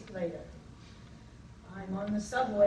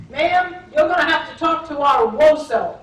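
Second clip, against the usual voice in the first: louder, higher, fast crisp phone greeting; louder, fast military phone answer; brisk sergeant; 4 semitones higher, 12 dB louder than usual. Retold or imitated. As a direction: snap it off like a drill-sharp recruiter.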